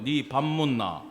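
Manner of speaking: Daegu-accented question, falling away; Daegu dialect. Shown as a demonstration. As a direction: model the Daegu intonation for repeating. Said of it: "대구말이에요".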